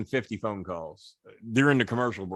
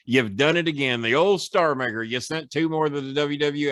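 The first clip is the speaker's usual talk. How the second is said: imitating Jimmy announcing; 4 semitones higher than usual. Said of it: "He says".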